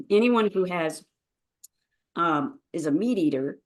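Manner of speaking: a touch of morning hoarseness; slightly rough, just-woken voice. Real, not acted. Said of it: "my morning voice".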